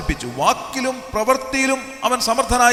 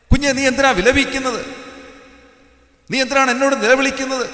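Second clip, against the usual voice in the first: lightly raised, sustained pulpit appeal; insistent preaching; 3 semitones higher than usual. Acted. Preacher voicing God reminding a crying believer, insistent preaching. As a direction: press each reminder home like a preacher.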